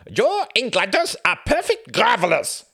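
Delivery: hammed-up German accent, high and loud; outrageous German accent. Gunther teasing Tom in an overblown German accent. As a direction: overdo the German accent for a laugh. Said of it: "put on an outrageous German accent".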